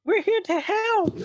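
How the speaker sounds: high, slow cartoon official; mock official voice. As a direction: squeak it out like a smug bureaucrat. Mocking government line.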